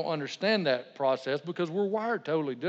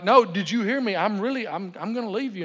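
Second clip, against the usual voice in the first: raised, higher voice acting out frustration; retold exasperated warning; mad and upset; 4 semitones higher, 4 dB louder than usual. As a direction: insist to an unbothered wife, starting loud and easing off. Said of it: "I'm mad and I'm getting upset".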